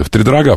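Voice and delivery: "Втридорога" accented on the final "га"; stress on last syllable. Shown as a demonstration. Host checks the word, final-syllable stress on "Втридорога". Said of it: "ударение в слове".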